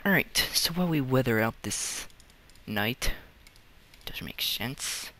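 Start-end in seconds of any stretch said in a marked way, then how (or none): 4.0-5.1 slow whisper to self. Real, not acted. Muttering to self.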